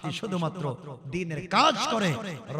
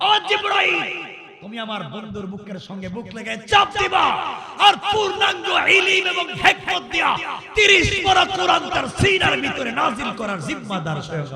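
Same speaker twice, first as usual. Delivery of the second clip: high, full-force preacher's shout; loud, high sermon climax easing at the end; thundering proclamation; 13 semitones higher, 13 dB louder than usual. Retold or imitated. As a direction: shout the retold command at the congregation. Preacher thunders God's retold command.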